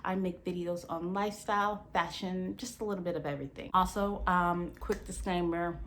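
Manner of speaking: talking with retainers in; slightly lisped speech from retainers; wearing a retainer. Real, not acted. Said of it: "if I'm talking weird during this video".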